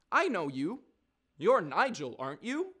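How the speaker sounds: lightly voiced posh kid; posh little voice. Kid recognising Nigel, in a mock posh little voice. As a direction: imitate a little kid's posh voice. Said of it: "this posh little voice, man".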